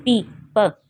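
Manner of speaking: पी as the letter name, प as a short puff; name पी, then sound out प; letter sound demo. Shown as a demonstration. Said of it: "इसकी जो beginning sound है".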